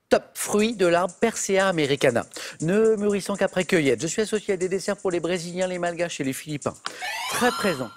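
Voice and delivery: énoncer l'indice comme un animateur de quiz; lecture de question de quiz. Acted. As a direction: question lue d'un ton appuyé, un peu plus fort. (voix d'animateur qui lit la question, posée et appuyée)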